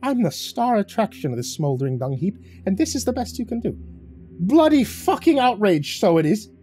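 high, scornful outburst rising to a shriek; sneering growl. A narrator's reading. Leprechaun scorning Kaz's gift, sneering and high. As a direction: sneer it, then blow up. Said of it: "The leprechaun sneered at it and growled".

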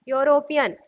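"यूरोपियन" begun with a consonant Y, "yo-ropian"; teacher modelling the "yo" that starts "यूरोपियन"; initial Y glide. Shown as a demonstration. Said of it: "यूरोपियन इसको पढ़ते हैं".

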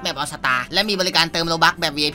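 brisk scripted sponsor plug; sponsor ad read. Acted. Streamer reads a shop sponsorship to viewers, ad voice. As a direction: rattle off the sponsor's services.

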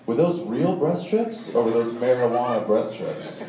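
slowly spelled out, leaning on "real" and "marijuana"; slow pointed question. Retold or imitated. Trooper repeats his question to the comic, slow and pointed. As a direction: make each option plain, slowly and deliberately. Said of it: "listen to my question".

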